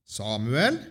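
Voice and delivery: SAMUEL drawn upward in a rising call; calling a name. A narrator's reading. The Lord calls the sleeping boy, gentle rising call. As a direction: call "Samuel" with the last syllable lifting, no shout. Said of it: "Da ropte Herren en gang til".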